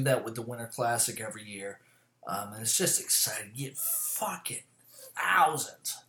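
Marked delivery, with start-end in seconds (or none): 3.5-6.0 breathy whisper of awe; hushed, wide-eyed whisper; whispered aside. Real, not acted. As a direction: lean in and whisper the crowd size. Hushed aside on crowd size.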